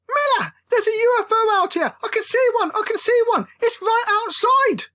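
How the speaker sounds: thrilled frantic shout about the UFO; excited shouting. Acted. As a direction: shout the news in breathless excitement.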